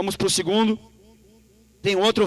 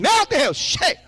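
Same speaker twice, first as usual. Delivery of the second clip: mock dismayed cry; 10 semitones higher, much slower than usual. Pregador imita o crente surpreso, grito exagerado. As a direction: cry out as if overwhelmed. Prophet's dismayed reaction acted.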